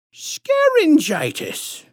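high, stretched-out lisping pronouncement; patronizing lisp. A narrator's reading. Bogus doctor naming the condition to the parents, patronizing lisp. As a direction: draw the word out high, then drop. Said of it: "patronizing, squishy-throated lisp".

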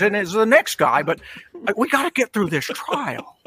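a hint of an old-movie leading man; lightly voiced classic film lawyer, pleading; Jimmy Stewart. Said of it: "I'll try to do Jimmy Stewart in, uh, uh, Anatomy of a Murder".

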